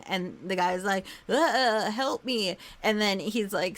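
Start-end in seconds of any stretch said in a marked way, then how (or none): 1.3-2.6 lightly voiced dying groan; mock dying plea for help; dying man. Storyteller voices dying guy begging the hero, mock-feeble plea. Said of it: "a guy who's dying".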